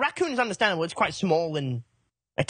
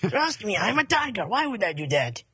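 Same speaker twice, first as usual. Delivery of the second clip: reassuring mock-French accent; hammed-up French-accented innocence; French tiger; slower than usual. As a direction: soothe them in a comic French accent. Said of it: "A French tiger".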